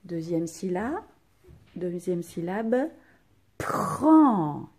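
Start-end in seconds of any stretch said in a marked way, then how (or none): 3.6-4.7 prend said loud, falling; stress on prend. Shown as a demonstration. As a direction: mark prend clearly. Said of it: "Attention, j'ai bien dit p".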